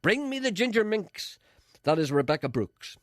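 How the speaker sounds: hammed-up press baron yelling; yelled. A narrator's reading. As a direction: roar the order from the throne. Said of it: "staggered back to his throne and yelled".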